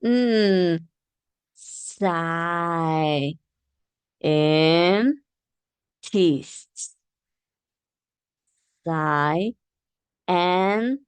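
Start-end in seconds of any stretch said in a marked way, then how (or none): 1.5-7.0 sci-, and, tests said apart, syllable by syllable; split into syllables. Shown as a demonstration. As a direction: break scientist into sci- and tests. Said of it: "you know that difference".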